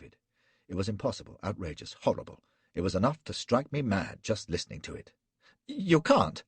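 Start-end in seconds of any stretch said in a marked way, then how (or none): 5.7-6.4 high, loud shriek of terror; terrified shriek. A narrator's reading. Flashman shrieking at Gul in terror, very high and loud. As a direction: scream it in pure panic. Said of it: "I shrieked".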